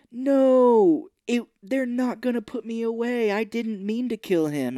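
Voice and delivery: high, loud desperate protest; mock pleading. Host mimics Juliette Lewis pleading, high loud whine. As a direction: beg in hammed-up panic. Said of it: "Juliette Lewis is like".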